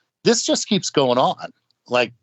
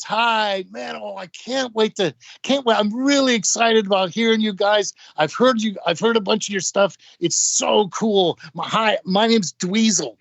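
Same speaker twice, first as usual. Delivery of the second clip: imitated eager fan, pitched higher; a guitarist; 6 semitones higher than usual. Guitar player greeting the opening act he admires, imitated high-pitched gushing. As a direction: gush excitedly in a raised voice. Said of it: "He walks in the door and goes".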